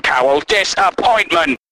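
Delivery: ordinary talk, nothing marked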